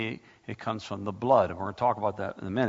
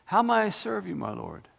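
lifted prayer; 8 semitones higher than usual. Shown as a demonstration. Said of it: "write it down and say".

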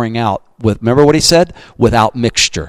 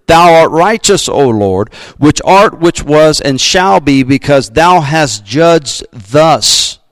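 angel's praise, slowing at the end; 2 semitones higher, slower than usual. Acted. Angel pausing judgment to praise God, slow exalted praise. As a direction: proclaim it like an angel in praise, drawn out. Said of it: "take a praise break ... and says".

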